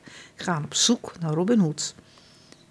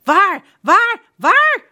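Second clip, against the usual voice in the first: very high, loud frantic squeal; panicked; 11 semitones higher, 7 dB louder, slower than usual. A narrator's reading. Prince John panicking about Robin Hood, very high and loud. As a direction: squawk it in terror. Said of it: "roept de prins".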